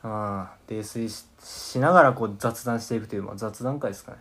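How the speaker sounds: tipsy, slurred chatting. Real, not acted. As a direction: talk like you've had a few. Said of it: "全員泥酔しておりますね".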